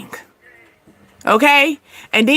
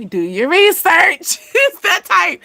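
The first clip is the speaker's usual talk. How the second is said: slow, higher, laughing mock comeback; laughing sass at the confused buyer; sassy retort; 6 semitones higher, slower than usual. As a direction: drawl it out like a know-it-all.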